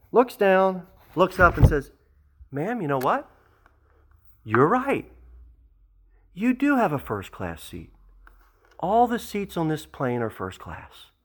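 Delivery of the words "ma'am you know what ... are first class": kind gate agent. Retold or imitated. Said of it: "the gate agent kindly says".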